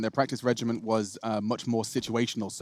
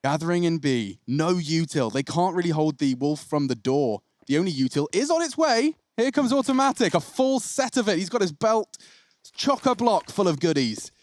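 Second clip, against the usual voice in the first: esports caster voice, lifting as action builds; live play-by-play; 4 semitones higher, 3 dB louder than usual. Real, not acted. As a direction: call the round as it unfolds. Calls live esports round.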